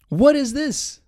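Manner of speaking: sudden high shocked question; shocked high squeak at a search result; surprised. Real, not acted. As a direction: recoil at what's on the screen. Reacting to a weird search result.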